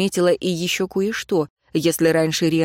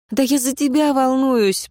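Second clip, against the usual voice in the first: near shout; 7 semitones higher than usual. Acted. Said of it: "почти закричала Тайра".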